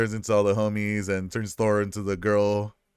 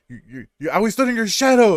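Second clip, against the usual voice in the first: high, louder mock accusation; mock Loki; 10 semitones higher, 5 dB louder than usual. Loki accusing Thor, hammed-up high voice. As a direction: stammer out the grudge, hammed up. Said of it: "And Loki's like".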